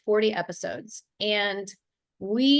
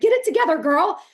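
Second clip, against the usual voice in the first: self pep talk; 9 semitones higher, 8 dB louder than usual. Retold or imitated.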